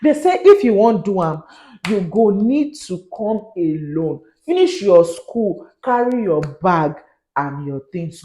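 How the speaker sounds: Nigerian Pidgin newsreader, measured pace; Pidgin news delivery. Shown as a demonstration. Vlogger telling students to come alone, Pidgin news delivery. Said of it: "it feels like I'm giving news in pidgin".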